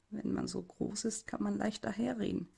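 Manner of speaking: bitter. Acted. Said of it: "platzt es bitter aus mir heraus".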